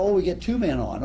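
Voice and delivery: Vince Scully. Retold or imitated. Announcer describing a rally to listeners, imitated excitement. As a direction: build the thrill like a play-by-play man. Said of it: "So Scully is describing".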